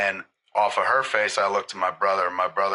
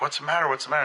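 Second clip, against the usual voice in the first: mock panic, pitched up; freaked-out mom; 6 semitones higher, much faster than usual. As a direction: imitate a mother's alarmed repeated question. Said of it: "Mom freaked out".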